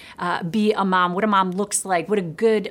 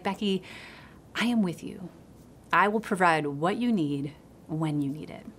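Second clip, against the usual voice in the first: gentle God voice; 5 dB quieter than usual. Retold or imitated. God's gentle words, retold.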